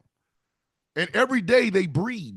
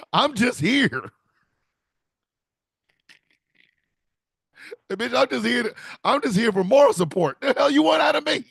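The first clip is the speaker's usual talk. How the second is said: indignant bird voice; 6 semitones higher than usual. Retold or imitated.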